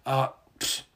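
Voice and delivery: little pfft after a sip; breathy pfft after a swallow; beer sip and exhale. Real, not acted. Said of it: "I'm drinking beer".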